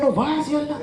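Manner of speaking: imitating Benny's Cape Flats Afrikaans, high and lively. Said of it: "Benny still have the accent".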